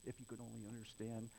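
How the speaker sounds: lightly groaned, low exasperated plea; groaning Jesus. Acted. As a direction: sigh it out softly, pleading to be believed. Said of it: "Then Jesus again groaning".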